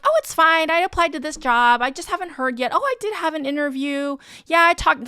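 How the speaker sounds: high, loud fake breeziness; pretending to be okay. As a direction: imitate someone covering up with forced cheer. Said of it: "Maybe you're pretending to be okay".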